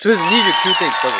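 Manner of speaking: high, loud and fast with joy; excited shout. Real, not acted. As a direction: blurt it out thrilled and racing. Just beat record, celebrating. (興奮した叫び)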